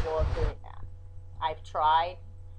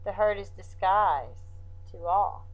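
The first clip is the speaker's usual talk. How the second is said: poem recital; 3 semitones higher than usual. Acted. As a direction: read it like a poem, with pauses.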